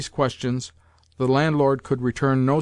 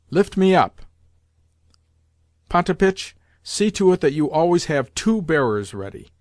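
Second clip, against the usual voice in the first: imperious grandmother; 3 dB louder than usual. Acted. Grandmother insulting the General and ordering Potapitch, lightly imperious. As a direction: lecture the men, then order the servants.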